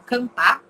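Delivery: "cantar" with the final R left off; dropped final R. Shown as a demonstration. Teacher showing a student's misspelling, dropped final R. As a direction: say "cantar" as "cantá". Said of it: "Esquece o R no final".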